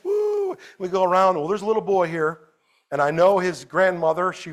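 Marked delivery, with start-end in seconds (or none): 0.0-0.5 joyful whoop. Acted. Celebrating kids getting saved.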